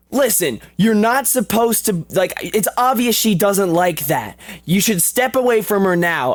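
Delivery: a hint of a nervous teen stepping in; shy teenage boy. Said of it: "I'm trying to remember the lines".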